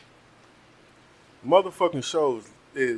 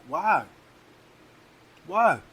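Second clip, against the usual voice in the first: exasperated why; 6 semitones higher than usual. Real, not acted. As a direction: throw it out in disbelief. Exasperated rant.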